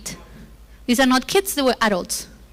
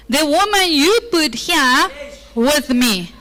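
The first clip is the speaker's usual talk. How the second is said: passive aggressive; 3 semitones higher, slower than usual. Acted. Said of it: "Passive aggressively saying".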